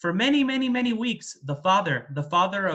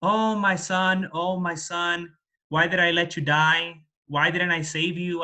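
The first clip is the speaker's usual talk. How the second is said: mild mock lament. Father mourning at his son's grave, mildly acted lament. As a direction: lament like a grieving father, without real sobs. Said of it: "he would start crying".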